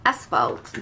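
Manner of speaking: English shade name in a Québécois French accent; real French accent on English. Real, not acted. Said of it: "Désolée pour mon accent anglais".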